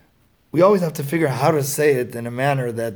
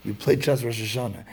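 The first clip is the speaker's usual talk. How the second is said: "You played chess Rosh Hashanah" said flat as an accusation, mildly scornful; a light hint of talking down to the boy; condescending statement. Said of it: "in a condescending manner".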